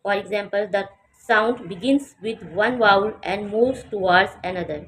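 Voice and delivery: very slow, carefully spaced words; slow model reading. Shown as a demonstration. Teacher reading the textbook line slowly to students. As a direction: read it word by word for learners. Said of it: "teacher reads textbook line".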